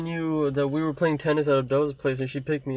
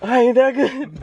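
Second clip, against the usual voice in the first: laughing through the words, pitched up; 9 semitones higher, 4 dB louder, slower than usual. Real, not acted. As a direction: giggle it out while admitting it. Laughing at his own joke.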